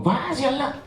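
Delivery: imitating Benny's Cape Flats Afrikaans, high and lively. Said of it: "I couldn't believe Benny spoke like us".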